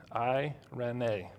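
"eirene" said slowly as eye-reh-NAY; Greek word sounded out. Shown as a demonstration. Preacher teaching the Greek word, "eirene" slowly sounded out as eye-reh-nay. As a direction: sound out "eirene" in three slow parts. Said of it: "it's the Greek word".

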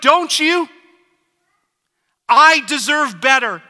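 high, loud, indignant pleading; angry at God. Retold or imitated. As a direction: shout your grievance up at God. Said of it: "and often angry with God".

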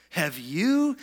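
mocking question with a rising swoop. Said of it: "They mocked".

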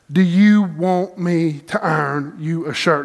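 slow, sarcastic mimicry of the question; half-joking mock of his wife's offer at 2 a.m. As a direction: drag it out like you can't believe she asked. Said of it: "And I didn't say it like that, but this is what's going on in my mind".

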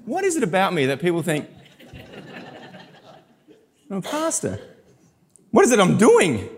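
high, laughing through the question; laughing disbelief. Retold or imitated. Pastor wondering why people guess his job, laughing. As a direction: chuckle at yourself in disbelief.

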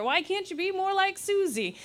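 a touch of the scolding mum; nagging parent. Retold or imitated. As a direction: parent comparing a child to a sibling, mildly scolding.

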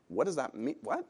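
normal talking voice

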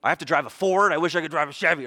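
mock grumbling complaint; put-on ungrateful grumble. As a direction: whine about what you were given, hammed up. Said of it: "we just grumble about things".

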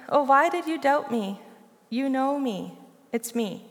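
tender and reassuring, softening toward the end; as if holding his face in your hands; compassionate. Retold or imitated. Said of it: "I actually hear Jesus' compassion".

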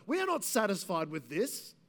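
firm, deliberate crowd demand in short phrases; measured, insistent defiance; emphatic refusal. Acted. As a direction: voice the crowd standing firm against Pilate. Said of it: "So it's emphatic to Pilate".

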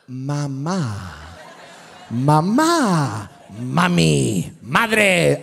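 put-on drawn-out baby coaching, building from low to loud; mock coaxing mother. Preacher plays Lauren over the baby, comically insistent coaxing.

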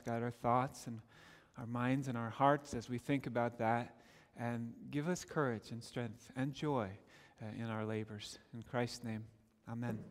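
soft, low, reverent prayer voice; hushed pastoral prayer. Acted. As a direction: pray quietly to the Lord. Pastor leads opening prayer.

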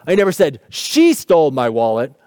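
SHE stressed, rising at the end. Shown as a demonstration. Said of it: "even just sometimes in the words we emphasize".

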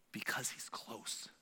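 unvoiced, slow whisper. Shown as a demonstration. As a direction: lean in and whisper it close. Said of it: "That's how you whisper".

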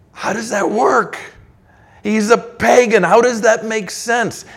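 high disbelieving protest, pitch well up; incredulous objection. Retold or imitated. Preacher voicing Israel's objection to Cyrus, incredulous. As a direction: voice the people's baffled pushback. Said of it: "God is imagining his people crying out".

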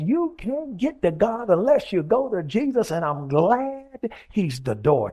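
rhythmic, rolling sermon cadence; fervent preaching. Acted. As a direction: build the list like a preacher, stretching the climax. Preaches at full force.

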